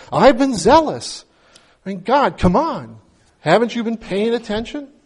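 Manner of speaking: venting frustration at God, insistent; exasperated complaint to God. Retold or imitated. Man complaining to God he's been ignored, exasperated.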